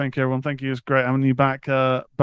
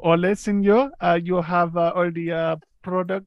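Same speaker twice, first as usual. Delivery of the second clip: a hint of a Spanish accent, pitched higher and slowing down at the end; hammed-up Spanish accent; 3 semitones higher than usual. Cohost asked to play the seller, in a mild mock Spanish accent. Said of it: "like, hola, senor?".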